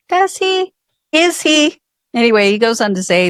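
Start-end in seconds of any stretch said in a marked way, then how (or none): 0.1-1.8 sarcastic. Real, not acted. Sarcastic reply to quoted letter.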